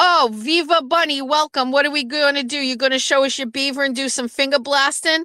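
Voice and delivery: put-on Boston accent. Retelling what a man said after seeing her Instagram handle, imitating a Boston accent. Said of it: "he's got a Boston accent".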